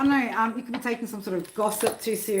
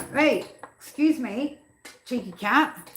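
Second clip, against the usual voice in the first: playful scolding to cat; 4 semitones higher, slower than usual. Real, not acted.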